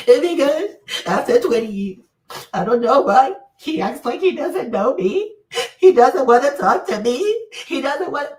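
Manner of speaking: hammed-up blubbering imitation; mock crying. Host imitating a wife crying on YouTube, mock sobbing. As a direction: wail it out in loud, exaggerated fake sobs. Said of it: "coming on your YouTube to cry".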